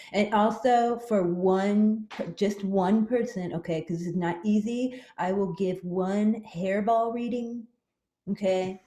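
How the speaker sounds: psychic cat voice. Acted. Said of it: "she is the very special Maya, the Psychic Kitty".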